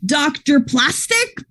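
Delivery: slow, eager proposal rising to a shout; pitching a silly podcast name to a friend, eager; excited pitch. Acted.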